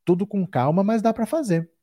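hiccuping between words; talking through hiccups. Real, not acted. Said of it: "Tô com soluço hoje".

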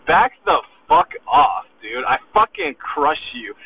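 hammed-up aggressive put-down; aggressive back off. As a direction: bark him down like you own the room. Telling off a doubter, aggressive.

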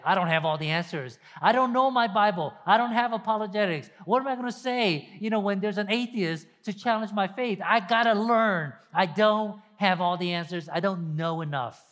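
mock panicky believer; anxious excuses. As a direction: fret about not knowing enough. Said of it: "We say".

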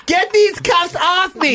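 high, slow strained protest; struggling against restraints. Acted. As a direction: fight the cuffs while yelling. Acting arrested teen.

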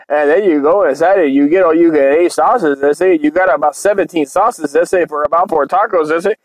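lightly voiced Chicano homie with a lilt; mock Chicano sauce critic.

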